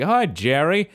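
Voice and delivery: high, swooping friendly hello; small-town store greeting. Acted. Storekeeper greeting a regular, hammed-up folksy. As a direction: play a homely shopkeeper's hello. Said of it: "And he's like".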